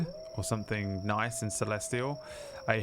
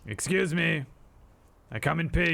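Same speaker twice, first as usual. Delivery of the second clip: polite paladin; 6 semitones higher, 3 dB louder than usual. Acted. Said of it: "I'll stand up and say".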